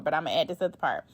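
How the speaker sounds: muttered aside. Real, not acted. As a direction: slip it in quickly under your breath. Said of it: "I said I wasn't gonna read no more".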